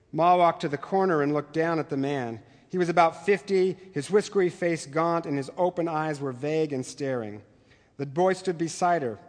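measured read-aloud of a novel passage; story narration. Acted. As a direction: read it like a teacher sharing literature.

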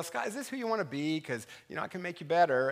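soft, quiet inner voice; the Holy Spirit quietly prompting the pastor; gentle nudge. Retold or imitated. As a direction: coax him gently. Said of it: "the Holy Spirit nudge me and go".

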